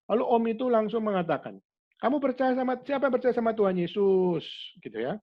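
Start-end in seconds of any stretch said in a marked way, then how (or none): 2.0-4.5 put-on higher, bright call to a room of children; rally the kids with the question; cheerful question to kids. Visiting man asks the school children, cheerful and high.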